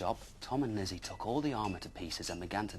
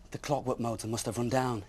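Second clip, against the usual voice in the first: groaned; 4 semitones higher, 9 dB louder than usual. Acted. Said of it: "he groaned".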